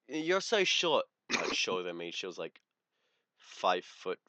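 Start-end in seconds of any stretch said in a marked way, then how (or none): 0.1-1.1 high, slow sneering put-down; mock snooty girl. Imitating the girl calling him short, high and slow. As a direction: drag it out with scorn.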